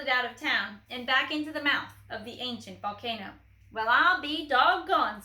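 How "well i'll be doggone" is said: a light squeaky mouse amazement; squeaky surprise. A narrator's reading. Officer sees the dog flee, mild squeaky wonder. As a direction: squeak it with delight. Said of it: "squeaked the Big Cheese".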